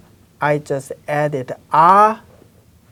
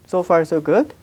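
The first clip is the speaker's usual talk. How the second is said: normal talking voice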